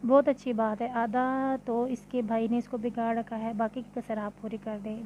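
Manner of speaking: wife snapping at indulgent husband; a touch of real anger; angry retort. Acted. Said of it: "सच में गुस्से से ही जवाब दिया".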